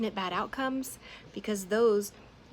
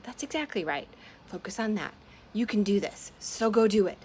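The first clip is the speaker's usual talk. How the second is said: encouraging friend; 3 semitones higher, 6 dB louder than usual. Acted. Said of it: "imaginary Nyala put in".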